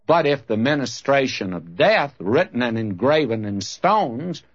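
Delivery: emphatic Bible reading with rising and falling swells; preacher's measured, stressed verse reading; Scripture reading. Real, not acted. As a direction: read the verse out to a congregation. Reads Scripture aloud to congregation.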